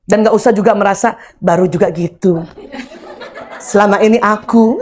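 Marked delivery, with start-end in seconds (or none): 1.4-4.8 sulky grumble. Acted. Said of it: "itulah istri yang julid".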